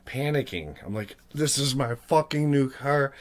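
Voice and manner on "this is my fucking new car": high, loud panicked outburst; like your new car just vanished. Retold or imitated. Panicking in dream over stolen car.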